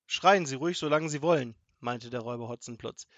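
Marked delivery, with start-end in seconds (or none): 0.1-1.5 loud, unbothered retort; scornful dismissal. A narrator's reading. Robber to screaming grandmother in the forest, loudly dismissive. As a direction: brush off her screaming.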